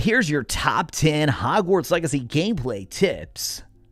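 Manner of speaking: fast news presenter voice. Explaining narration styles, demonstrating a top-ten news read: fast-paced news presenter voice. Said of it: "it's more fast paced".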